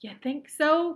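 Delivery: loud, high challenge; cried out. A narrator's reading. Wonka challenged by a doubting boy, cried out. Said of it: "cried Mister Wonka".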